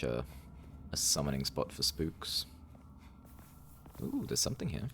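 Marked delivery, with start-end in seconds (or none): 4.0-4.9 surprised. Real, not acted. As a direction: perk up at a find. Spooky find in a well.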